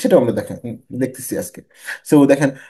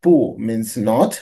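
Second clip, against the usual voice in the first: slow word-by-word reading; 2 semitones lower, much slower than usual. Shown as a demonstration. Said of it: "তা means big".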